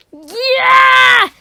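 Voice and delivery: shouted high battle cry. Acted. Boy charging the caretaker, loud yell.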